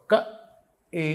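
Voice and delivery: క, then a pure ఏ after a pause; separate syllables. Shown as a demonstration. Guru corrects the mantra, క and ఏ distinctly separated. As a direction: sound క and ఏ apart, with no y glide. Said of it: "ఇక్కడి నుంచి పలకాలి".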